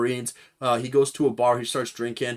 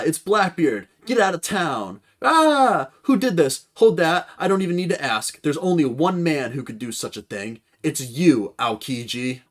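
a touch higher and louder demanding captain; lightly voiced pirate captain; 4 semitones higher, 5 dB louder than usual. Blackbeard confronting Aokiji, lightly voiced and demanding. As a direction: confront the man who froze your crew. Reads manga dialogue in voices.

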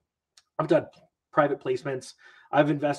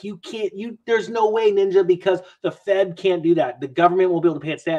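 incredulous objection; 2 semitones higher, 4 dB louder than usual. Retold or imitated. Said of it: "people are like".

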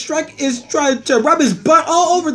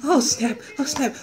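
"Oh, snap" in a soft, lowered voice; low oh snap; 4 semitones lower, 6 dB quieter than usual. Acted. Reacting to what is on, low "Oh, snap".

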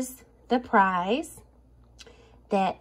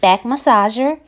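hyped giveaway announcement; 9 dB louder than usual. Acted. Announcing the giveaway winner, loud.

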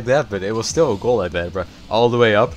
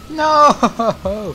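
much higher, louder cry of no; dismayed yell; 14 semitones higher, 6 dB louder than usual. Real, not acted. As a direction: shout it as the ball goes wrong. Opponent chance in match.

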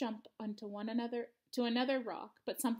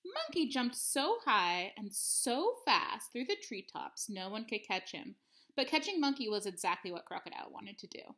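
picture-book narration. A narrator's reading. Teacher reads a monkey tale to third graders, expressive storytelling. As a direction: linger on key words, letting them swing in pitch.

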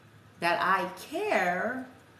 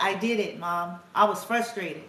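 lightly voiced son reporting success, louder; a hint of a proud kid telling mom, punched louder; imitating her son; 5 dB louder than usual. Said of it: "'cause that's how he talks".

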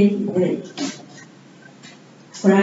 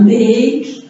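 MAKE-UP broken into two slow words; MAKE-UP said slowly, word by word; very paused. Shown as a demonstration. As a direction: stretch MAKE, pause, then UP. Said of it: "Eu falei bem pausado".

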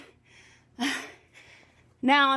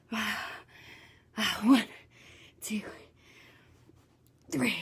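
doing push ups; 6 dB quieter, slower than usual. Real, not acted. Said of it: "My arms are dying".

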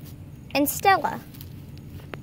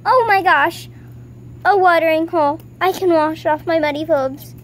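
excited; 3 semitones higher, 4 dB louder than usual. Acted. Delighted at the watering hole.

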